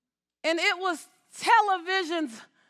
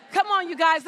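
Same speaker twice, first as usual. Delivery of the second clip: urging shout; 3 semitones higher, 6 dB louder than usual. Real, not acted. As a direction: call it out loud to the crowd. Urging audience, repeated call.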